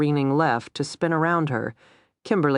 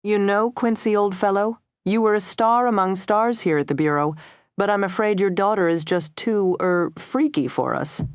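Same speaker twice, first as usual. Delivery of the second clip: higher, put-on old-boy official voice; imagined boss; 6 semitones higher than usual. A narrator's reading. Imagined Bureau boss phoning her father, hearty regret. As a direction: break it to an old colleague, delicately.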